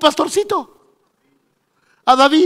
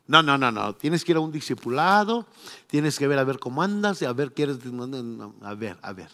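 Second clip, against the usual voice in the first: mock fussy churchman; 7 semitones lower, 7 dB quieter than usual. Church gatekeeping, mocking.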